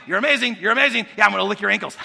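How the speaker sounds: dog fawning over its owner; adoring dog. Acted. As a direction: gush praise like a happy dog. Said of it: "what the dog does".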